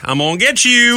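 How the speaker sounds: high creepy parrot mimicry; imitated parrot. Parrot at an open window to the mailman, high creepy mimicry. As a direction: call it out like the talking parrot. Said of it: "you're the mailman. The window's open".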